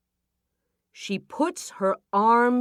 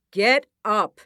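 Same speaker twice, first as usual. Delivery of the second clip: loud, high command; sharp soldier's order; 6 semitones higher, 8 dB louder than usual. Acted. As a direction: bark it at the villagers. King's men order villagers.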